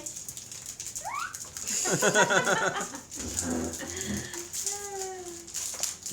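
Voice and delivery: long, high giggling laugh. Real, not acted. Laughing while kids open packs.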